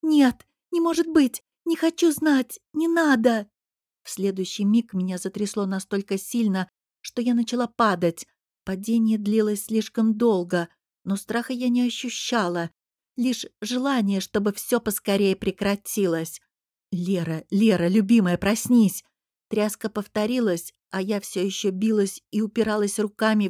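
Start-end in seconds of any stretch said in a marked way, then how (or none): 0.0-3.5 high, loud panicked scream. A narrator's reading. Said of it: "закрыла лицо руками и закричала". 16.9-19.0 calling to wake. Acted. Husband wakes her from nightmare.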